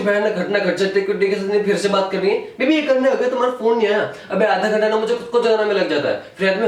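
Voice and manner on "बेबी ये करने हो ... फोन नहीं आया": higher-pitched mock girlfriend complaint; lightly put-on needy girlfriend voice; mimicked girlfriend. Girlfriend complaining about a missed call, mimicked higher.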